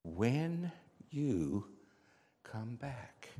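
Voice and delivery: slow, with a pause before the last words; drawn-out, reflective echo; pondering repetition. Acted. Narrator ponders the words once more.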